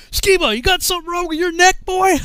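loud, high-pitched drill sergeant shout. Retold or imitated. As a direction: bawl it at a recruit like a drill sergeant. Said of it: "the drill sergeant's like".

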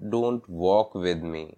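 "don't walk with me" said very slowly, each word apart; slow example sentence. Shown as a demonstration. Teacher modelling an example for learners, very slow. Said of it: "मेरे साथ मत चलो".

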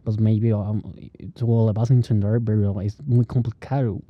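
lightly put-on English-speaker accent in Spanish; imitated foreign accent. Foreigner talking to you in hard-to-follow Spanish, foreign accent. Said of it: "te viene a hablar a ti así".

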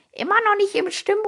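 high, loud mocking girl voice; teasing Sally. Sally mocking Bill's squeaky voice, high and teasing. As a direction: tease him in a high voice.

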